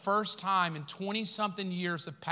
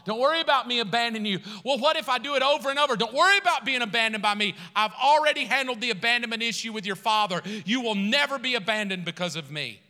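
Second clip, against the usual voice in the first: reassuring Jesus; 3 semitones higher, 5 dB louder, faster than usual. Retold or imitated. Jesus answering in dialogue.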